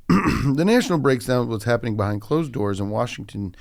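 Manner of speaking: lightly voiced Reykjavik accent reading the headline; odd put-on accent. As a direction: read it in a vague Icelandic lilt. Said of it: "I don't know why I'm talking like this".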